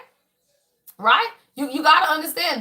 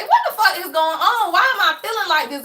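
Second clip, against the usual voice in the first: mock-frantic self-talk; alarmed; 5 semitones higher than usual. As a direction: replay the panic at finding her feelings out of control. Retold panic to herself.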